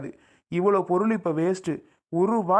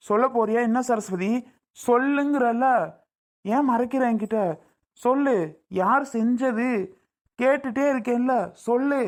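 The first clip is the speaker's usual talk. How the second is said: demanding; 4 semitones higher than usual. Acted. Husband demands who made it.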